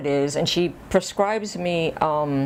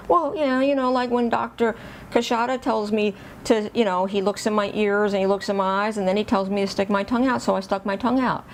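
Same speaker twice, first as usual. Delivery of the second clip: put-on higher, mildly defensive child's explanation; imitating earnest explaining; 5 semitones higher than usual. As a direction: explain yourself like an innocent kid. Child explaining himself to mother, retold.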